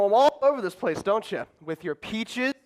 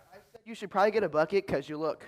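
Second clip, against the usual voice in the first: muttered aside; 3 semitones lower, 7 dB quieter than usual. Acted. Harry mutters under breath.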